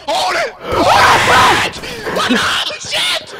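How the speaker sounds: urgent shouting; yelling across the room. Real, not acted. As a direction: bark it out loud. Yelling during a fight.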